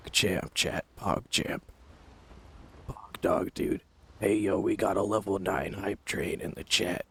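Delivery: low, soft, hushed close-mic murmur; breathy murmur demo. Shown as a demonstration. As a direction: talk like a brooding game hero right into the mic. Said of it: "have I ever talked to you guys".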